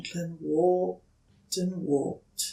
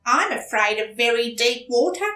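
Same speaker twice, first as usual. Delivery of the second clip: higher, confiding duck voice; shy duck; 9 semitones higher, 8 dB louder than usual. Acted. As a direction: admit a secret, a bit embarrassed.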